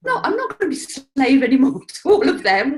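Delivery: hammed-up liberated wife, high and loud; mock defiant woman. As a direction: play the wife finally breaking free, half laughing. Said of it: "She's like".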